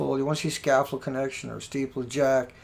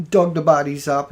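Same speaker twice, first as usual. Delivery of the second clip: talking through a burp; a burp in the words; 7 dB louder than usual. Real, not acted. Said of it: "excuse me, I'm burping".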